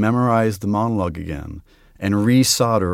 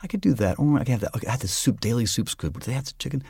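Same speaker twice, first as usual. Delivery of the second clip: higher, idle chatter to oneself; wandering inner thoughts; 3 semitones higher, 6 dB quieter, faster than usual. Shown as a demonstration. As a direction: let stray thoughts tumble out, pitched up. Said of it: "this is what my mind is doing".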